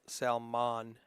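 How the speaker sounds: Salmon as sal-MAHN, ending like "mon"; broad-A pronunciation. Shown as a demonstration. Commentator sounding out the double A, broad-A pronunciation. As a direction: open up the last vowel of Salmon to AH. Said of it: "what M A A N is pronounced".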